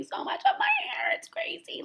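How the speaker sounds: breathy whispered aside. Real, not acted. Vlogger confiding to viewers about her hair, whispered. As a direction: whisper it like a secret to the camera.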